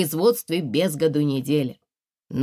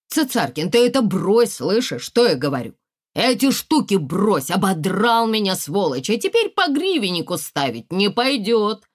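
louder, heated scolding of a cheating partner; angry card player; 5 semitones higher, 5 dB louder than usual. Acted. Lyonya scolding Tsitsarkin over cards, loud and angry. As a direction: snap at the man who fleeced him.

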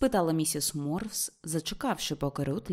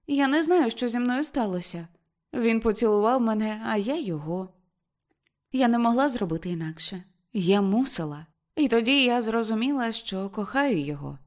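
high, loud rush of feeling; excited confession; 5 semitones higher, 3 dB louder than usual. Acted. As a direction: gush it out to mother. Ruth confessing love excitedly.

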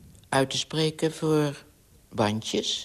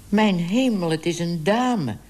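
surprised exclamation; 3 semitones higher than usual. Acted. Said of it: "zei meneer Smit".

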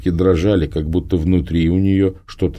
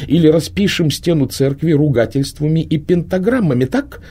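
higher, mocking, scornful witch voice; scornful Prima; 10 semitones higher than usual. A narrator's reading. Prima mocks the girl's idea of witchcraft, scornful and high. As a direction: sneer at the girl's naive fantasies.

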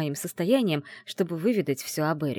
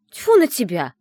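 much louder, spitting out "тьфу"; loud scoff; 6 semitones higher, 11 dB louder than usual. Acted. Heroine scoffs at her friend and throws a comb, loud. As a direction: huff it out and throw the words. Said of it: "фыркнула я".

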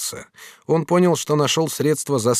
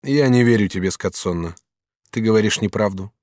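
calm tone. Acted. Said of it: "сказал Челлини спокойным тоном".

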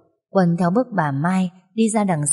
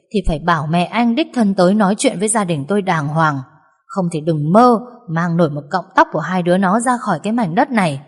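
stern mother-in-law. Acted. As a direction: lay down the law for her daughter. Mother-in-law lectures son-in-law.

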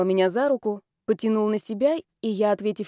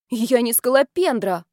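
indignant; 3 semitones higher, 4 dB louder than usual. Acted. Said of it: "возмутилась я".

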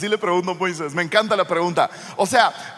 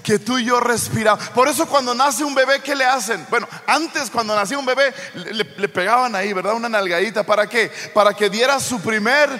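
loud, ringing sermon build; preaching at full force; 3 dB louder than usual. Acted. Preacher rousing the congregation, loud full-force preaching. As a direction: proclaim it to the whole congregation.

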